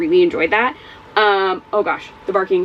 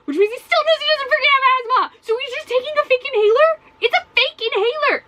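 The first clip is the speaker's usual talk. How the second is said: exasperated. Real, not acted. Exasperated rant about Eddie.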